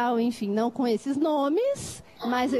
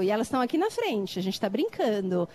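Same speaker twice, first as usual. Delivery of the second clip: usual speaking voice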